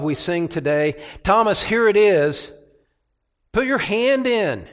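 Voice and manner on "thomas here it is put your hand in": higher and louder, rising to a triumphant shout; risen Christ proclaiming. Acted. Preacher voicing the risen Jesus to doubting Thomas, triumphant shout. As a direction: proclaim it as the living Lord.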